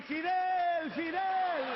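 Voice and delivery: loud chant called across the water; calling out. Retold or imitated. Crowd in the water calling out to Fidel, loud chant. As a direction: call the name out like a crowd.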